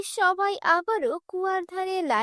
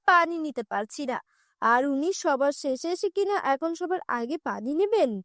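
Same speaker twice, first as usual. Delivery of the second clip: resentful village woman. Acted. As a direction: complain bitterly about a queue-jumper in a lowered voice. Villager resents the chief's wife.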